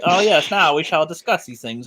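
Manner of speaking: a lightly hammed British accent; mock British. Teasing a friend who turned British, mock British accent. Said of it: "you almost turned British in my head".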